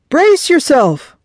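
loud, high warning shout; urgent call. A narrator's reading. Fisherman to the rookie as the shark rears up, urgent call. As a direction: call out a warning across the boat. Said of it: "called the fisherman".

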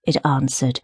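ordinary delivery

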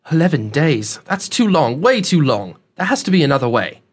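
lightly voiced young man, dismayed; dismayed young traveler. Young man balks at the long detour, mildly dismayed. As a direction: protest with rising urgency, leaning on the repeat.

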